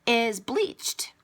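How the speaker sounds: whispered aside, dripping with sarcasm; sarcastic whisper. Acted. Vlogger mocking commenters who say she bleaches, sarcastic whisper. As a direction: breathe the words out as a scornful secret.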